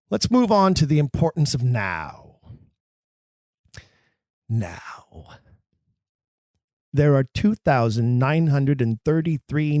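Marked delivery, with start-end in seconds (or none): 4.5-5.4 Now, dropped low and held apart as a single word; stressed now. Shown as a demonstration. Teacher showing actors the key word, low stress. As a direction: give Now its own weight, low and deliberate. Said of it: "I instruct actors to always stress the word".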